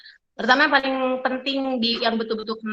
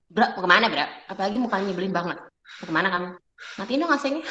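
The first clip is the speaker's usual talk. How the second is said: warrior tone; much faster than usual. Shown as a demonstration. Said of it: "tonasi kedua tuh namanya tonasi warrior".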